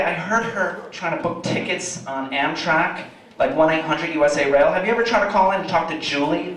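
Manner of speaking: normal talking voice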